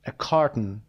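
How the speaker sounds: "carton" stressed on the first syllable, KAR-tn, then falling; English stress on "carton", first syllable. Shown as a demonstration. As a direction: say "A carton" with the weight on "car", not the Persian kar-TOON. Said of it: "استرسش هم گذاشته".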